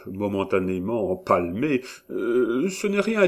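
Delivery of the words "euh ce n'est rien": high, prim housekeeper voice; a fussy older woman brushing it off; voix de gouvernante. A narrator's reading. Perrine replies, high voice. (voix aiguë de dame Perrine)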